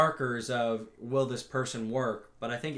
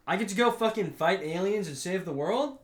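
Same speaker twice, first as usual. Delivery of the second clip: put-on cocky teenager; 5 semitones higher than usual. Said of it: "typical teenage response".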